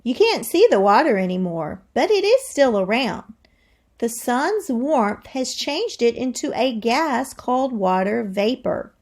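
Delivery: lively read-aloud to the class; expressive classroom read-aloud; reading to children. Acted. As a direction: read it like a storybook for kids. Teacher reads book aloud.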